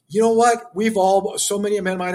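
sudden high, loud burst; fervent outburst. Real, not acted. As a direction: rise up and plead with fire. Passionate plea to young men.

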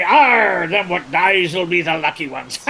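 loud growled Arr, then a rolling West Country pirate voice; pirate talk. Acted. To a radio host, showing how pirates talk, growled pirate accent. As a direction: growl it like an old movie pirate. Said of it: "pirates talk like this and they say".

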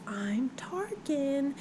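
slow, breathy whispered claim; mock whisper. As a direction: whisper it slowly like a sneaky lie. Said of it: "She's like".

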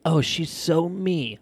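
slow, gushing fan voice; gushing mom. Retold or imitated. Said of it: "people be like".

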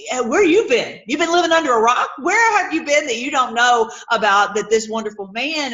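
loud, disbelieving questions; mock incredulous. Retelling Cleopas's reply to the stranger, mock incredulous. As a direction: pile on the questions in playful disbelief.

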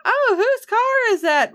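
high, startled mock wife; startled question. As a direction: squeak it out in sudden surprise. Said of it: "she's just".

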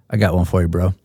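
flat, bored deadpan delivery; monotone deadpan. Retold or imitated. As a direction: say it totally flat, no emotion. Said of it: "absolute Jason Gelfand monotone deadpan".

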